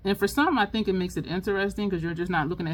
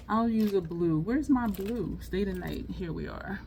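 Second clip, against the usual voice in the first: usual speaking voice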